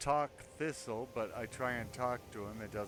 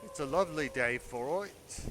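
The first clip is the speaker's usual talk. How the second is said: mock British accent; 4 semitones higher, 5 dB louder than usual. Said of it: "thought I was trying to do a British accent".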